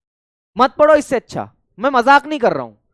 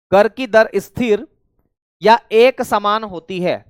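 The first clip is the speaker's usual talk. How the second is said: dictation; 3 semitones lower, slower than usual. Shown as a demonstration. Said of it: "इसमें लिखेंगे मेरे साथियों".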